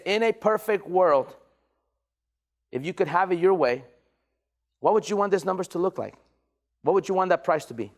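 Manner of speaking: measured pace with long pauses between questions; slow down and let each question land; slowed-down sales question. Shown as a demonstration. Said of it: "Slow down".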